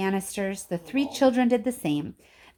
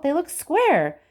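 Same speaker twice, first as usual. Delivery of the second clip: stubborn; 8 semitones higher, 5 dB louder, slower than usual. A narrator's reading. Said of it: "said Veruca Salt".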